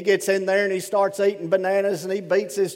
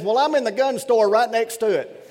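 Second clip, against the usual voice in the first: laughing punchline; 4 semitones higher, 3 dB louder than usual. Retold or imitated. Punchline delivered, husband's voice.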